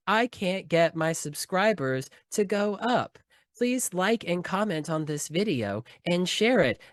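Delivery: slow, even text-to-speech read; robot narration voice. Retold or imitated. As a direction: sound like an automated TikTok narrator. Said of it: "the automated narration voice that says".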